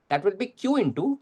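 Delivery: slow and deliberate, word by word; slow dictation. Shown as a demonstration. Teacher dictating the formula to students, very slow. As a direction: spell the formula out slowly for students. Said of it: "teacher dictating formula slowly".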